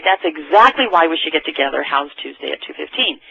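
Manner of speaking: steady, sure delivery of the line; said with confidence. Shown as a demonstration. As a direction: say it like you mean it. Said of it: "You say it with confidence".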